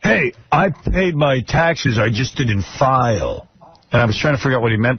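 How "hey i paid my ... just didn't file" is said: mocking quote. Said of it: "This whole rap now is".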